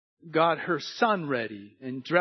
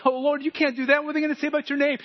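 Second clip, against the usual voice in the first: pleading Moses; 9 semitones higher, 4 dB louder, much faster than usual. Retold or imitated.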